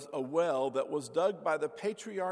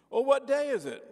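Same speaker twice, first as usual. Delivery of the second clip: indignant caller; 10 semitones higher, 7 dB louder than usual. Retold or imitated. Confused caller's outburst in joke.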